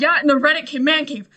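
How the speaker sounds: loud laughing reply; loud laugh through the words. Real, not acted. Laughing after friend's joke.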